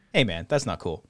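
a lightly voiced calm, sensible self; reasonable self. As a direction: keep it level and sensible, like the grown-up in you. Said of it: "the reasonable person in me thinks".

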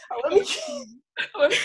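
high, slow, hammed-up whine for the keys; mock wailing. Whining to her friend about lost keys, hammed-up wail. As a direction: drag it out like a mock sob. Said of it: "You should have that as your ringtone".

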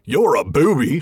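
straight-faced troll insult; a deadpan troll insult. Acted. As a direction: keep a straight face this time. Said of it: "Let me try that again".

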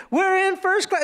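high, imitated child glee; excited little girl. Little girl told by mom it's first class, excited. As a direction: crow it like a thrilled kid.

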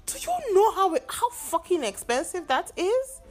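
exasperated outcry. Real, not acted. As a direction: cry out the frustration, high and loud. Complaining about call costs.

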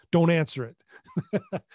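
slow, laughing through the words. Retold or imitated. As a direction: chuckle while warning not to answer. Joking about a ringing phone.

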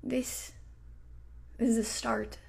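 soft breathy whisper; a hushed secret. Acted. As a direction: lean in and whisper it. Sudden hushed emphasis.

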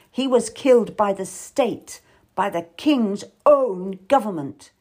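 a touch of lasting bitterness; bitterly. Acted. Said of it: "Then she says bitterly".

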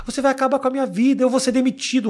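lightly voiced desperate scammer; pleading scammer. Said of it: "o cara fala". (golpista desesperado)

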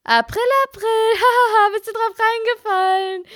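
high, laughing April April; hammed-up gloating sister, pitched high. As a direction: crow over the prank with a laugh. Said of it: "Und sie so".

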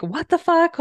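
mock raging disbelief; imitating an angry outburst, hammed-up; pissed off. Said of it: "she's pissed".

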